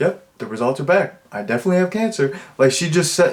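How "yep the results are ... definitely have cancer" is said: put-on nonchalant, offhand delivery. Describing how a woman delivered a line, mimicking a nonchalant delivery. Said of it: "the way she delivers it is so like nonchalant".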